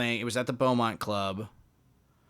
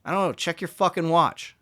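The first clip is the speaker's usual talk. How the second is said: mock snappy retort; 8 semitones higher, 8 dB louder than usual. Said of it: "And I go".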